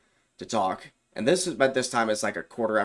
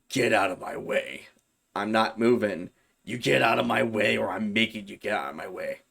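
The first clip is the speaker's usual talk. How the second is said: menacing demon. Retold or imitated. Demon blocking the door, threatening him in a cold possessed voice. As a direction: make each word a threat.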